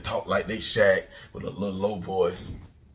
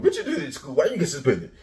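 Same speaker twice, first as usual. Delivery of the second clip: higher-pitched imitation of a scolding mama; questioning mama; 6 semitones higher, 3 dB louder than usual. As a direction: play a mother grilling her child. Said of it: "explaining to your mama".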